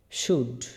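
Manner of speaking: শুড said as one syllable, "shood"; demonstrating pronunciation. Shown as a demonstration. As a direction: model শুড clearly, with a silent L. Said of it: "উচ্চারণটা কি হবে?".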